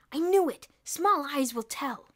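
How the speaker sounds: high, loud smug claim; triumphant gossip. A narrator's reading. Gossiping boy to the crowd, loudly smug. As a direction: crow that you called it.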